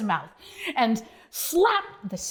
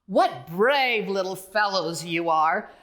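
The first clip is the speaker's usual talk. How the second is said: kind driver; 4 semitones lower than usual. Acted. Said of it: "said the driver".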